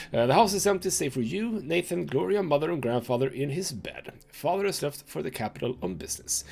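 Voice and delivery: measured dramatic storyteller reading; story narration. A narrator's reading. Game player reading the story aloud, dramatic narration. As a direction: read it out like a grim tale.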